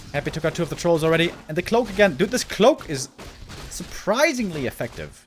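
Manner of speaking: fast, excited play-by-play; esports caster. Real, not acted. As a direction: rattle off the action live. Live play-by-play.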